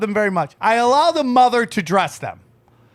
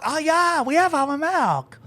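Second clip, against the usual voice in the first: higher-pitched imitated Asian accent; thick Asian accent; 7 semitones higher than usual. Shop lady answering an order, high mock Asian accent. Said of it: "Thick Asian accent".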